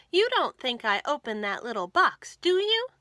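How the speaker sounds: overdone innocent denial; guilty protest. Acted. Martha nervously denying to George she opened it.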